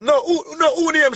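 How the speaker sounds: high, insistent asking; excited high question. Real, not acted. Pressing a caller for a name, high and insistent.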